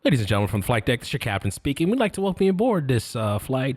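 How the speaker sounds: captain's cabin announcement, muffled; pilot over the radio. Shown as a demonstration. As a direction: airline captain on the intercom. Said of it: "You wanna hear my pilot voice?".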